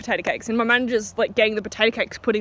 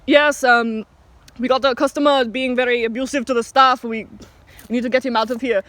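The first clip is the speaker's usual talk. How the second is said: measured phone report in a bad Indian accent; imitated manager's Indian accent; terrible Indian accent. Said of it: "terrible Indian accent".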